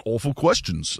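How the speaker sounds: put-on half-hearted British accent; mock British accent, said softly; bad British accent. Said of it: "that was an awful British accent".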